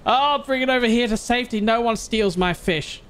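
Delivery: high gloating; proudly guard your prize; excited. Real, not acted. Gloating carrying fish.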